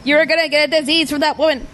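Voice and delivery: imitated weird line delivery. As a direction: parrot an oddly delivered film line. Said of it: "a really weird line delivery".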